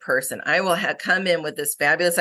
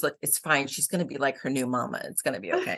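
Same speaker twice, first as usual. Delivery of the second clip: lightly imitating a soothing facilitator, lower and softer; a touch of calming, hushed-down comfort; mild reassurance; 3 semitones lower, 6 dB quieter than usual. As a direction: quote it as low, easy reassurance. Facilitator reassuring about adopted child.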